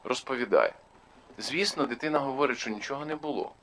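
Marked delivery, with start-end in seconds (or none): 0.0-0.7 mildly pressing mock interrogation; imitating intimidating interrogator. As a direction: prod like an impatient questioner. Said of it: "таким голосом кажуть". (імітація вимогливого допиту)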